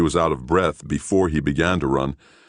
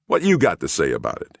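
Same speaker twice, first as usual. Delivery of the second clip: demanding. Acted. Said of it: "he demanded".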